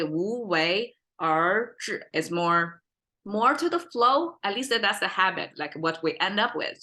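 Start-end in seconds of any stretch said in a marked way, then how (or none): 0.0-2.0 无为而治 drawn out in a flowing run; flowing tones on 无为而治. Shown as a demonstration. Teacher showing the habitual pronunciation, flowing tones on 无为而治. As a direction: let the tones of 无为而治 flow together. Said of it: "pronunciation-wise, probably".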